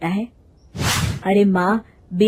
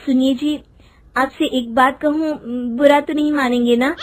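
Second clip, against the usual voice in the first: higher voice, tentative request to her husband; hesitant wife; 5 semitones higher than usual. Acted. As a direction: ask permission gingerly, pitched up. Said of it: "मालती झिझकते हुए रमेश से कहती है". (झिझकती पत्नी की आवाज़)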